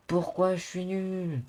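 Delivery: very slow, high English learner French; broken french. Pretend. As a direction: drag it like a struggling Englishman. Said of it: "Moi, je suis anglais".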